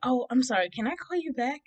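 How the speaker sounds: high, sweetened excuse to a caller; politely wriggle out of the call; apologetic phone reply. Retold or imitated. Caught by cousin during the call.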